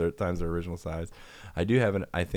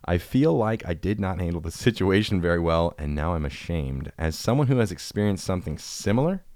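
slightly louder, deliberate read; reading a listener email aloud, a bit louder; 4 dB louder than usual. Acted. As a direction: read the letter out with mock gravity. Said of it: "reading listener email".

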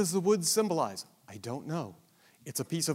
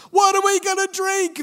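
much higher, louder mock demand from the crowd; complaining demand; 8 dB louder than usual. A narrator's reading. Thirsty Israelites demanding water from Moses, high mock complaint. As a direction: whine it out like a thirsty complaining mob. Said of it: "they demanded".

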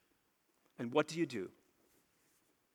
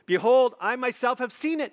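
loud, higher "Behold", "seen" lingered; divine declaration; 5 semitones higher, 5 dB louder than usual. Acted. The Lord confronting the temple crowd, loud declaration. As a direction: proclaim it as God's own verdict. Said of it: "declares the Lord".

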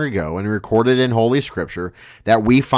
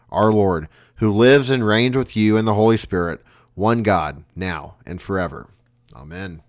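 prayer. Acted. Collect prayer after sermon.

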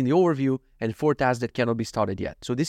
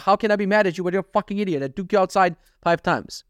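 higher, fast retold scolding; exasperated; 5 semitones higher than usual. Owner to dog who peed indoors, high exasperated scolding. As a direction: rattle off a mock rant at the pet.

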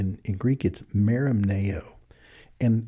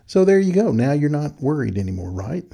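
mock reassurance; 5 semitones higher, 4 dB louder than usual. Ironic repeat of empty comfort.

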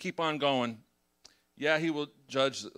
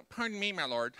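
put-on Gideon voice; 5 semitones higher than usual. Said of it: "that's a voice I put on it".

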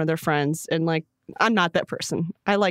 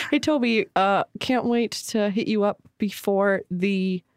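slow, holding back laughter; trying not to laugh; slower than usual. Pretend. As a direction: fight the giggles as you speak. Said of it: "I'm already laughing".

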